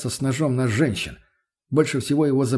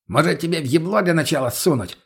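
threatening; 4 semitones higher than usual. Acted. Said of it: "пригрозил ему Мутный".

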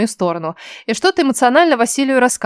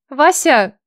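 напряжённо; 4 semitones higher than usual. Acted. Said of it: "напряжённо позвала".

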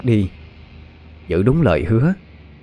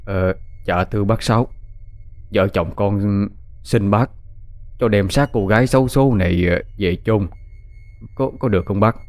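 lightly voiced, polite pleading husband; humble peasant husband. Husband humbly asks old Uncle Sáu for the body, polite pleading. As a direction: ask the old man's leave humbly.

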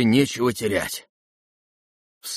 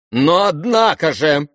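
loud, slow, higher burst; sudden outburst; 7 semitones higher, 6 dB louder than usual. Acted. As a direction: explode into it. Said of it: "взрывом возвысил голос".

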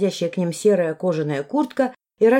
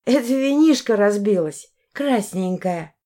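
put-on drunk voice; 2 semitones higher, slower than usual. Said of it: "Я попыталась пьяно икнуть".

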